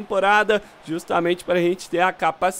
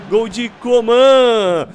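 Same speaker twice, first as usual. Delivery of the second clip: loud, excited goal announcement; goal shout; 6 dB louder, slower than usual. Real, not acted. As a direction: shout the scorer's name.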